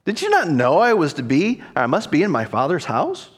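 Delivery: mock-flippant retort, rising at the end; a touch of cheeky reply. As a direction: toss it back as an obvious question. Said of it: "seemed to be rather flippant".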